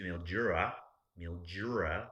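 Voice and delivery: "Mildura" with a J sound, as Australians say it; Australian pronunciation. Shown as a demonstration. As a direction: imitate the Aussie "Mildura", with a J for the D. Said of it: "that's how they talk".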